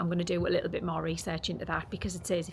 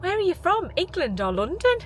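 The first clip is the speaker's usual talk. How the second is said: high, loud curious questioning; put-on high-pitched excited question; imitated shop assistant; 12 semitones higher, 5 dB louder than usual. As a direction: mimic a gushing cashier, lifting at the end.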